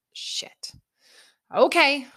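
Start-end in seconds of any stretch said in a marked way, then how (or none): 0.1-0.7 soft unvoiced swear; whispered curse. Grandpa says the horse is ready, whispered curse. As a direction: breathe the word out in resignation. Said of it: "And I'm like".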